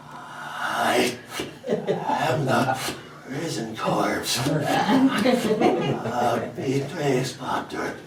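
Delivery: low, mumbling zombie groan. Retold or imitated. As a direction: drag the words out like a corpse. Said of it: "it all came out a bit like".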